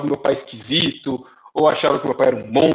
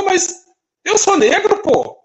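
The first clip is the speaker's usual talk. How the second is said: higher, indignant retort of the obvious; surprised retort; 13 semitones higher, 3 dB louder, much slower than usual. Retold or imitated. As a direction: act baffled that anyone would point it out. Retold reply to racist remark. (retrucando surpreso, em tom mais agudo)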